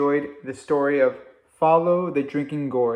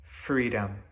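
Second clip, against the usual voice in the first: a soft, hushed single word; whispered; 5 semitones lower, 7 dB quieter than usual. A narrator's reading. Campfire listeners answering Joe together, hushed and soft. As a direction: breathe it out softly, barely voiced. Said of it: "they all whispered the same thing".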